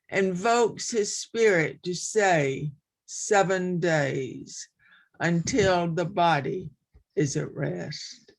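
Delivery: measured poetry recital with pauses between lines; poem reading. Acted. Poet reading Passage to an online gathering, measured recital. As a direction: read it line by line, letting each phrase settle. Reads her poem aloud.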